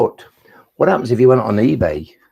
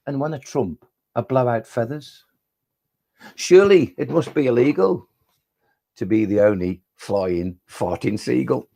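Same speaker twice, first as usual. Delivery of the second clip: comic poem recital. Acted. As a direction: recite a silly poem, slowing into the punchline. Performs his comic poem.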